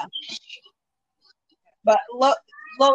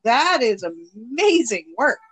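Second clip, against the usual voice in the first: acting like dying; 2 semitones lower, slower than usual. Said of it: "stop acting like you dying over there".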